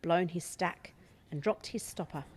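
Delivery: the whole street fed up, venting; exasperated neighbours. Acted. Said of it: "They went away muttering".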